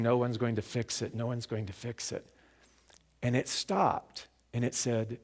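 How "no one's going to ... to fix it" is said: understated ominous chant, trailing softer; a hint of a looming dream voice. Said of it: "like this ominous voice going".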